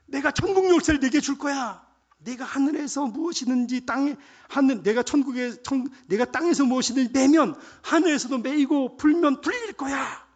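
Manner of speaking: loud, high, thrilled promise; excited Jesus. Acted. Preacher acting the excited Lord promising Peter the keys, loud and high. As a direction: promise it excitedly, building to a stretched climax. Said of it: "흥분하셨다니까요".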